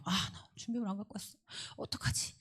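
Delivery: hushed anxious inner voice, fading to a whisper; uneasy worrying. Retold or imitated. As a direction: imitate a worried pupil murmuring to oneself. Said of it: "마음이 불편해요". (작은 소리로 불안하게 혼잣말하는 흉내)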